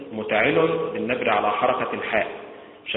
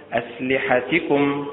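أسلحتكم with the stress on the لا, said slowly; stress on lam; 2 semitones higher, slower than usual. Shown as a demonstration. Teacher slowly models the stress of أسلحتكم. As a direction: weigh down the second syllable of أسلحتكم. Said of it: "بالنبر على حركة اللام".

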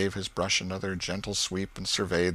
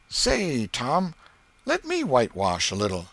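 put-on high pleading kid's voice; eager boy; 5 semitones higher than usual. Ben asking Tom to whitewash, eager kid voice. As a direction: ask hopefully.

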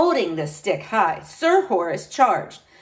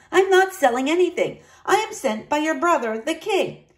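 high, loud cheerful friar; bright eager friar explaining; jolly booming friar; 6 semitones higher, 3 dB louder than usual. A narrator's reading.

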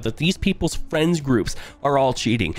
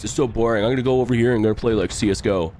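whiny streamer voice; 2 semitones higher than usual. Pretend. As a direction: whine like a caught cheater. Mocking whiny cheating streamers.

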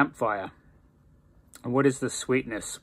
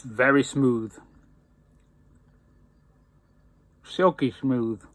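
lips clenched on pipe; speaking with pipe in teeth; talking around pipe stem; slower than usual. Real, not acted. Seen 1: Pipe at lips to 5.4, removed 5.9-7.0, back by 7.5.

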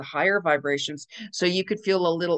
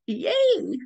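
mock cheer; 14 semitones higher than usual. Cheering a class sign-up.

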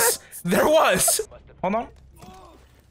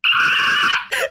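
pterodactyl shriek. Real, not acted. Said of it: "It sound like a pterodactyl".

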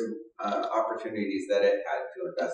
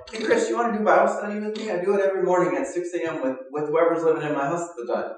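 a higher, louder, cheerful imitation of Kim; imitating Kim; 7 semitones higher, 4 dB louder, faster than usual. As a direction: bounce it like an eager friend inviting you. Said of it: "Kim would invite me over and go".

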